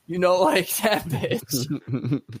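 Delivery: ordinary talk, nothing marked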